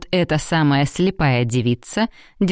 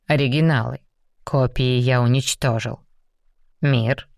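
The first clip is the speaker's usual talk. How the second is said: lower, restrained demon; a lightly lowered stern demon; 3 semitones lower than usual. Acted. Raum's lines. (сдержанный низкий голос демона)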